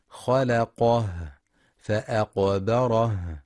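خلقه and فأقبره end on a breathy, voiceless ه; whispered final h. Shown as a demonstration. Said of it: "لهمس الهاء".

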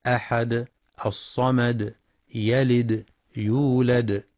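final dal bounced in "أحد، الصمد، يلد، يولد"; qalqala stop. Shown as a demonstration. Teacher demonstrating pauses, echoing dal in "أحد، الصمد، يلد، يولد". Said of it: "للقلقلة عند الوقف".

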